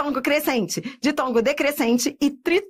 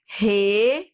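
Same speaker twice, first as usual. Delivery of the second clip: syllable by syllable. Shown as a demonstration. Teacher splits word into syllables.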